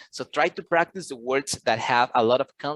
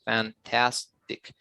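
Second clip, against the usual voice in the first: slow "fantastic", split into fan, tas, tic; syllable by syllable; 4 semitones lower, 3 dB quieter, much slower than usual. Shown as a demonstration. Tutor counts three syllables for student, fan-tas-tic said slowly. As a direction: break "fantastic" into three separate beats. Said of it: "how many syllables do you see".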